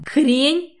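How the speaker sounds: explode, forgetting everything; screaming. A narrator's reading. Katya screams the word back at him, outraged. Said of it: "орёт, забыв обо всём на свете".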